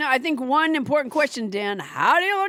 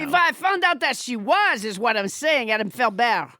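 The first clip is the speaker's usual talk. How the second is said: French Trump voice; 3 semitones lower than usual. Acted. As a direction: keep the French Trump puppet going. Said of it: "French Trump would disown her".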